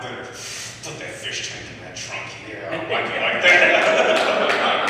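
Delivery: a slow, loud mock tough guy; mock car guy. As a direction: lay it on like a proud car pimp. Voicing a man pimping his car.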